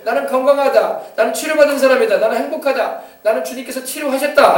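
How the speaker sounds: loud, confident declaration of health; bold confession. Shown as a demonstration. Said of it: "입술로 시인하세요". (크고 확신에 찬 시인)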